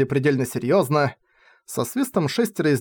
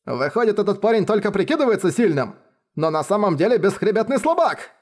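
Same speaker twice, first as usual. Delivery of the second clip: put-on raised, scornful young master voice; sneering young master; 5 semitones higher than usual. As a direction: jeer at him from up high. Villain sneers at hero.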